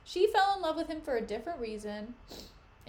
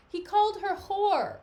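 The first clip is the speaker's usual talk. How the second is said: slow, louder, higher emphatic retort; indignant insistence; 5 semitones higher, 6 dB louder than usual. Acted. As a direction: spell it out indignantly. Emilia insisting angrily.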